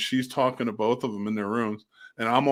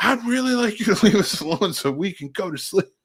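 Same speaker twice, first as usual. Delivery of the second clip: put-on shrill scream, very high and loud; 9 semitones higher, 5 dB louder than usual. Retelling a child's smartass reply: imitating a loud scream. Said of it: "he screamed real loud".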